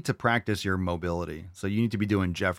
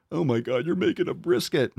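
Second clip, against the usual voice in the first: mock excitement; 6 semitones higher, 3 dB louder than usual. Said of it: "Said no one ever".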